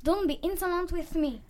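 firm teacher scolding; a touch of a stern teacher; mild scolding at normal volume; stern rebuke. Acted. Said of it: "That's enough".

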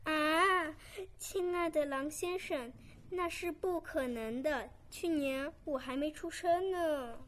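surprised little lamb protesting; gasp, then protest as the lamb; startled lamb. Acted.

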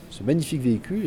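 mock-admiring praise; ironic. Real, not acted. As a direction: say it tongue in cheek. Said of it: "je dis ça évidemment en plaisantant".

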